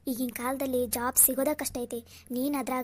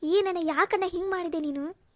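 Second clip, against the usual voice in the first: loud, higher, crying reproach at her brother; tearful outburst; 4 semitones higher, 5 dB louder than usual. Acted. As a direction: cry out at him through tears. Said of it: "ಅಳ್ಬೇಡಮ್ಮ, ಅಳ್ಬೇಡ".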